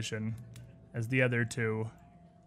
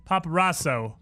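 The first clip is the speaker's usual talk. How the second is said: normal talking voice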